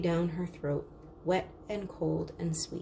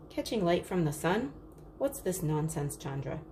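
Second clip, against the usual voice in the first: frowning father. Acted. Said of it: "Father frowned".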